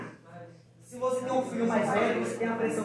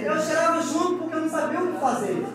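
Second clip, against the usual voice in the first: mother's voice; 5 semitones higher than usual. Retold or imitated. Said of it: "mãe falou assim".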